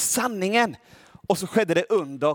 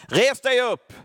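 higher, louder call to stand; Paul calls the lame man to stand, loud higher command; 6 semitones higher, 3 dB louder, slower than usual. Acted. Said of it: "sa han med hög röst".

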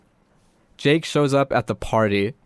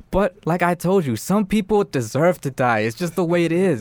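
higher-pitched persuasive doll; lecturing killer doll; 6 semitones higher than usual. Retold or imitated. Chucky lecturing Jake at home, insistent. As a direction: play Chucky setting the boy straight.

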